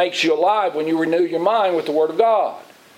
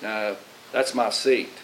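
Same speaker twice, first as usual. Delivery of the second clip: complacent; 6 semitones lower, 4 dB quieter, slower than usual. Retold or imitated. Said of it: "You can say".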